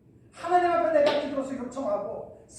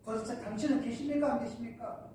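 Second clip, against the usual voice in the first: imitated complaining prayer. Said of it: "할 때가 많죠".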